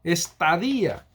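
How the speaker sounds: "Estadía" said es-ta-DÍ-a with a falling close; misspelled word read out. Shown as a demonstration. Teacher pointing out a spelling error to listeners, measured. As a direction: read "Estadía" alone, stress on the í. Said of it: "la O parece A".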